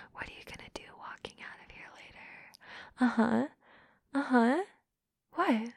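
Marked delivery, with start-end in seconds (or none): 0.1-2.3 fast mocking whisper. Mocking her partner in a quick whisper. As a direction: tease in a quick hushed whisper.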